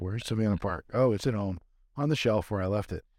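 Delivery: ordinary talk, nothing marked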